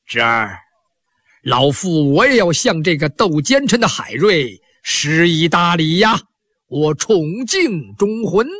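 put-on an old priest speaking gravely to his nephew; old Taoist priest. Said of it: "吴老道在旁边还说呢".

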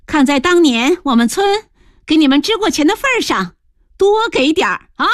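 high-pitched, opens with a laugh; laugh, then banter in a high voice. A narrator's reading. Woman teasing an old acquaintance for supplies, laughing. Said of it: "大姐就笑着说".

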